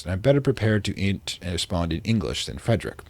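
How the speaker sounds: put-on light British accent for a diary entry; reading a diary in a mild British accent; vaguely British accent. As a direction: read it like a 1920s English diarist. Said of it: "I'm doing a vaguely British accent".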